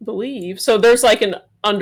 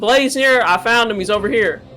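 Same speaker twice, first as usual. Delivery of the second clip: loud shout in a character voice; 3 dB louder than usual. Calling out in character to an ally in a fight: in-character shout. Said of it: "I'll shout out".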